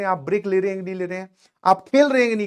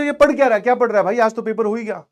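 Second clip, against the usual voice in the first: higher, louder, incredulous questioning at first, easing off; retold puzzled question; 3 semitones higher, 5 dB louder than usual. Asking a friend why he studies after the exam, puzzled. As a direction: act out baffled surprise at a friend.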